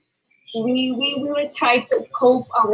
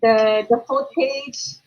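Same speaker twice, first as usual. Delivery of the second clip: hoarse voice. Real, not acted. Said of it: "I'm very sorry for my voice right now".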